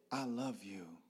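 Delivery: soft, low, near-whispered; hushed, low-pitched sincerity; tender confession. Retold or imitated. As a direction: say it gently to your father.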